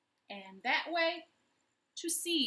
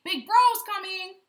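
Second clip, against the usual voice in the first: higher, louder chimpanzee alarm; chimp voice; 10 semitones higher, 15 dB louder than usual. A narrator's reading. Chimpanzee warns elephant, high and loud. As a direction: call it out in a panic.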